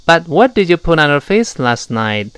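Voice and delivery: native-style English resting on the vocal cords; full resonant voicing. Shown as a demonstration. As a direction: let the cords vibrate fully, lips and tongue light. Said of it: "全靠声带的震动饱满加共鸣腔了".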